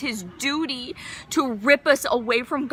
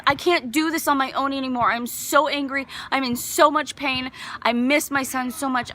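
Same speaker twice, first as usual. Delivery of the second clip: acted anguished plea, slightly raised; re-enacted grief, pressing each complaint; bawling in tears; 3 semitones higher than usual. Mother telling God she misses her son, anguished plea. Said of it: "I'm just bawling in tears".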